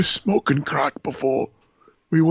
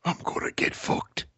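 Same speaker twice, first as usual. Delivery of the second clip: whisper; 5 dB quieter than usual. Retold or imitated. Imitating the whispered voicemail.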